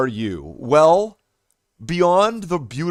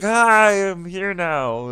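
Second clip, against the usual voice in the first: mock eager greeting; 5 semitones higher, slower than usual. Re-enacts popping into another stream.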